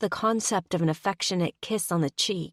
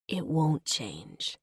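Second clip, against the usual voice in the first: slow and softer, gentle promise; gentle reassurance; 5 dB quieter, slower than usual. Acted. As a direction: reassure her gently and slowly. Gently reassuring the tearful Sophie.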